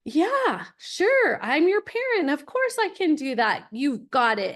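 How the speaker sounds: high, bright fake confidence that drops toward the end; mock confident reassurance. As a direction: sound sure of yourself while you are bluffing. Faking confidence to her son.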